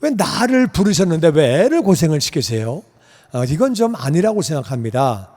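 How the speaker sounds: mildly aggrieved protest to God; retold complaining prayer. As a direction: lodge a pleading complaint. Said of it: "컴플레인인지 깡짜를 부리는 건지". (하나님께 따지듯 투정하며)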